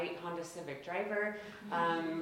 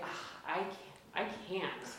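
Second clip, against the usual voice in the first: helpless; 7 dB quieter than usual. Retold or imitated. Helpless answer to parents.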